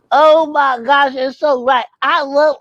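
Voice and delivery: high, loud excited puppet voice; puppet Bookie. Acted. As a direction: squeal like an eager puppet.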